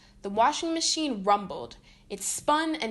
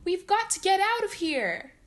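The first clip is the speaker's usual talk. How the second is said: panicked; 8 semitones higher, 4 dB louder than usual. A narrator's reading. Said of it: "cried Candace".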